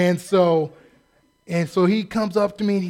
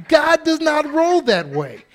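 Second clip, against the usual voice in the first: higher, louder, slow and weighty; emphatic declaration; 8 semitones higher, 8 dB louder, slower than usual. Real, not acted. Preacher insisting on God's reliability, emphatic. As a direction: land every word.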